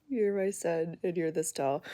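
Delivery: slow, deadpan dad; dry dad reply. Retold or imitated. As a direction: flatly state the obvious. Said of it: "My husband's like".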